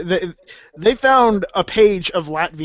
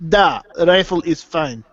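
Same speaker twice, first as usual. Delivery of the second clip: bad Russian accent. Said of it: "really bad Soviet Russia accent".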